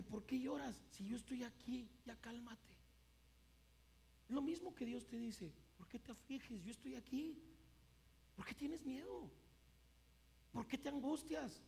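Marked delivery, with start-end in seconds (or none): 0.0-2.8 put-on softly hushing a crying child; imitated tender parent; soothing mother. 5.8-11.6 soft, tender questioning; acted divine tenderness; gentle reassurance. God gently reassuring the fearful, acted.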